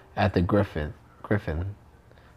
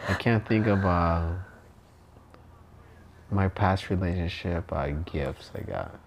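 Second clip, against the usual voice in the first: tipsy; 3 semitones lower than usual. Real, not acted. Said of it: "I'm drunk".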